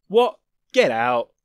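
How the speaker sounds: indignant cry. Acted. Lael offended by the thief question, loud indignant cry. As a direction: snap back, offended. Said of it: "the night speaker cried indignantly".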